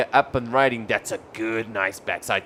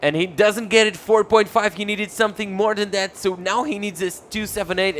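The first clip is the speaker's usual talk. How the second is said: excited play-by-play; 8 semitones higher than usual. Real, not acted. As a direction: ride the moment of the result. Excited call of result.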